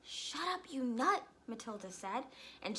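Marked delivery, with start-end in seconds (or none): 0.0-1.2 snapping. Acted. Matilda snaps at noisy parrot.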